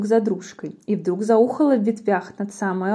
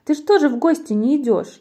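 raised, high questioning call; mouse calling out; 5 semitones higher, 5 dB louder than usual. A narrator's reading. Mouse chides the fox for not visiting, loud call. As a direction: tease loudly in a high voice. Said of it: "мышонок закричал".

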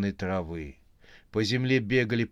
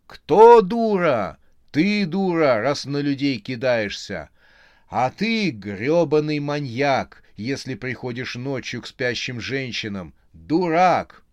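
very loud, high furious yell; furious scream; 3 semitones higher, 8 dB louder than usual. A narrator's reading. Yulia screaming back at Vadim.

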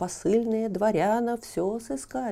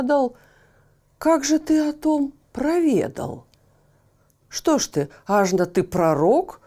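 loud defiant peasant lad, higher; Ivan protesting; 3 semitones higher, 7 dB louder than usual. Acted. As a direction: argue back hotly, a simple lad. (громкий задиристый Иван)

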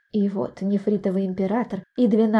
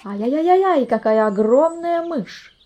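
high startled cry, slowing on the last words; shocked shout; 5 semitones higher, 3 dB louder than usual. Acted. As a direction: townsfolk gasp and shout at a giant mouse. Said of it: "закричали".

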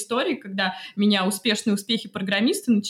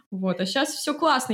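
ordinary talk

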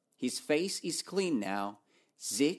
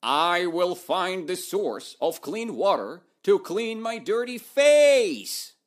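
proclaiming; 6 semitones higher, 7 dB louder than usual. Acted. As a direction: declare it with full confidence. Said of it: "He said".

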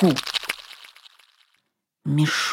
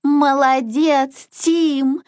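high, drawn-out cheer; cheering ducklings; 4 semitones higher, slower than usual. Acted. Ducklings praise Tim for saving them, high cheer. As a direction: cheer it higher, stretching the praise. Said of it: "хором закричали утята".

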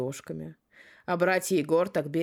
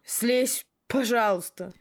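pleading; 6 semitones higher, 3 dB louder, slower than usual. Acted. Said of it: "свою быструю речь".

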